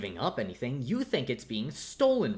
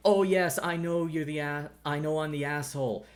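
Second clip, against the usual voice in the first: higher, louder mock admission; mocking mimicry; 4 semitones higher, 3 dB louder than usual. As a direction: parody the hollow apology. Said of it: "You wanna say".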